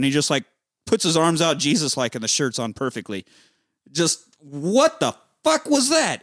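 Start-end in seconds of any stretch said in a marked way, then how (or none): 3.9-6.2 amazed. Real, not acted. Amazed at the shirt move.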